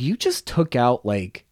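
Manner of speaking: a touch of exaggerated outrage; annoyed retort. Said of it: "I was like".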